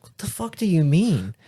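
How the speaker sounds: loud, high retold disbelief; acted incredulity. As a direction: replay your baffled outburst for laughs. Retelling disbelief at pepperoni remark.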